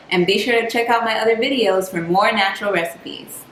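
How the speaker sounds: upbeat salesy pitch; infomercial voice. Shown as a demonstration. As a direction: read it like a TV ad. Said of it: "'Cause that sounded like an infomercial".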